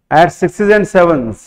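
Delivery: each word spaced out slowly for copying; slow dictation. Shown as a demonstration. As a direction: dictate it slowly so they can write. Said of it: "अलग से लिख देता हूँ". (धीमे-धीमे लिखवाना)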